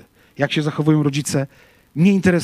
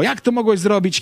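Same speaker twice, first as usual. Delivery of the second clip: mock angry yell; 6 semitones higher than usual. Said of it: "ty jeszcze krzyczysz na niego".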